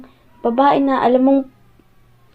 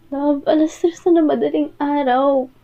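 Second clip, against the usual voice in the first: weary sigh. Acted. Sighing hurt partner at 3am.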